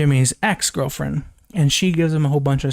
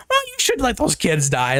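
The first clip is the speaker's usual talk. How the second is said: higher mocking dad voice; 6 semitones higher than usual. Mocking Snyder's Jonathan Kent, higher sneering voice. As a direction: sneer at the old version of the father. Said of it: "that guy was like".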